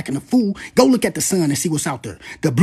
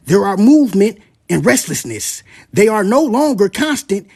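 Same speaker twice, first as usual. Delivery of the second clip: slow, weighty reading of the prophecy; dramatic scripture reading; solemn reading; 3 dB louder than usual. Acted. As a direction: let each image land slowly. Reads from the prophecy.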